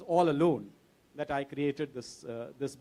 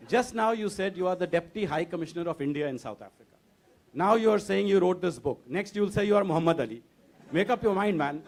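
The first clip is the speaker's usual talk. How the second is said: louder, laughing incredulity; laughing disbelief; 3 semitones higher, 5 dB louder than usual. Retold or imitated. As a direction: laugh through it, can't believe this guy. Incredulous seatmate voiced, laughing.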